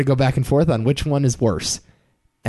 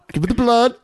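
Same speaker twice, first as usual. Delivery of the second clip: imitating Daniel's plea; 11 semitones higher than usual. Mocking the movie's blood scene.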